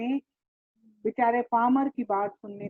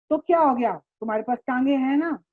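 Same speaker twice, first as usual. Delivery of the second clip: louder, quick dismissive shout; retold shout; 2 semitones higher, 4 dB louder, faster than usual. Uncle dismissing the farmer's walk, retold shout. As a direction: snap back at the farmer. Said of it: "उसे क्या कह रहे हैं चिल्लाकर".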